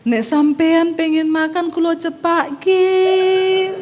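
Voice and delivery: high, very slow, sweet mock-refined voice; exaggerated polite Javanese. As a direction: overdo the refined krama Javanese. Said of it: "saya balas dendam". (balas dendam dengan bahasa Jawa halus yang dibuat-buat)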